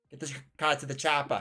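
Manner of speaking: mock Austrian action-hero accent; lightly put-on Austrian accent; Schwarzenegger. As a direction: do a comic Austrian action star. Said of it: "really close to the Schwarzenegger".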